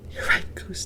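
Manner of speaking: soft unvoiced whisper. A narrator's reading. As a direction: whisper in fear. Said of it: "Duck whispered".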